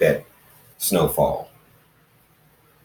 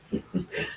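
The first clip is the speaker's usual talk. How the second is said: small chuckle; 13 dB quieter than usual. Acted. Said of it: "it was still a chuckle".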